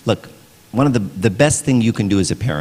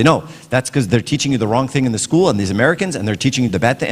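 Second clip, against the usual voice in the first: mildly defensive retort, pitched up at first; defensive parent; 4 semitones higher, faster than usual. Retold or imitated. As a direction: imitate a parent getting defensive. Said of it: "get defensive and say".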